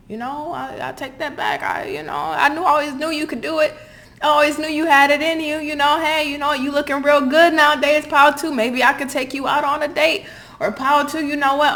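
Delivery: high, loud sweet-talking suck-up; fawning flatterer. Pretend. Fair-weather friends sucking up to a newly praised reader, high and fawning. Sphere people sucking up now.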